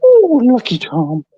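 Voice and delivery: slow squeaky high tease; drawn-out high sing-song; high teasing voice. Pretend. Teasing Lucky Charm in high voice.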